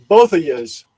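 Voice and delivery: Chicago accent, stretching "yous". Shown as a demonstration. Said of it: "There's my Chicago accent".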